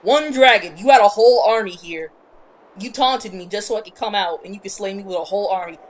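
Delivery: loud, outraged complaint; indignant rant. Retold or imitated. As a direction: dragon yelling at the emperor over his army. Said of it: "She was like".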